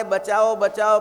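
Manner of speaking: retold panicked cries for help; mock cries for help. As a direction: call out for rescue, moderately loud. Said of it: "બાપુ રાડો પાડે".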